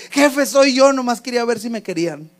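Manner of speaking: a touch of emotional confession; mild retold voice breaking. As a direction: imitate a lad blurting a confession to his boss. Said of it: "se le quebró la voz y le cambió la voz".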